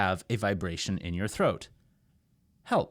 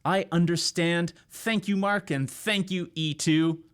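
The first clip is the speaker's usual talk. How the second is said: a cheerful student, pitch higher; lightly voiced grateful student; imagined student; 6 semitones higher than usual. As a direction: play a relieved learner saying thanks. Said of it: "You're thinking".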